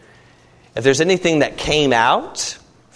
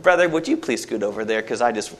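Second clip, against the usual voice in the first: mock gentle politeness; 5 semitones lower, 5 dB quieter than usual. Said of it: "never something subtle and kind".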